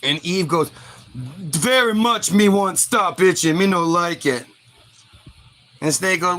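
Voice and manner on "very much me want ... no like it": slightly slowed simple-minded caveman; lightly voiced primitive. Acted primitive Eve answering.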